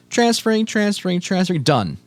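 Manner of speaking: mock loading voice. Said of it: "and it's like".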